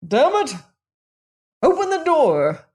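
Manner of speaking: loud, high furious shout; angry shout. A narrator's reading. Angry man outside shouting at the locked door. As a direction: bellow through the door to be let in. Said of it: "came the voice again".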